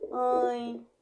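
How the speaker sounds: "mãe" com o ditongo ãe nasal e alongado; som nasal. Shown as a demonstration. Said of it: "o nasal oral é quando". ("mãe" esticado, ressoando pelo nariz)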